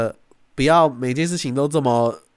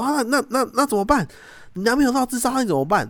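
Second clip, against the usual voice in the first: high, anxious voice, much higher; mock nervous sister; 11 semitones higher than usual. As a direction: act out the worried sister. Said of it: "很紧张说". (模仿姐姐紧张地追问)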